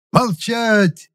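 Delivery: high barked command; yelled order. A narrator's reading. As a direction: shout them silent. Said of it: "заорал я". (громкий приказ «Молчать!»)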